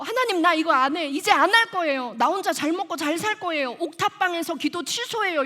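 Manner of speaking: indignant quitting speech, acted out loud; retold tantrum. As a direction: throw a mock fit at God. Acted tantrum at God after letter.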